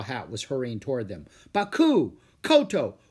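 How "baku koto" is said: loud, raised-pitch summons; scolding call to stray pupils. A narrator's reading. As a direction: call the names with falling endings. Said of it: "he called out to Jack and Annie".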